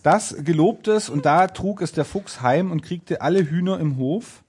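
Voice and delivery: measured storybook reading; fairy-tale narration. A narrator's reading. Narrator telling of the fox's reward, storytelling. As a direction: carry the tale onward, clearly read out.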